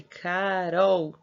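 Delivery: Carol stretched, final L as a U, Ca-rou; L sounding like U. Shown as a demonstration. Teacher pointing out the letter L, Carol ending in U. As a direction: lengthen both syllables of Carol, ending on a U sound. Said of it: "O L tem o som como se fosse do U".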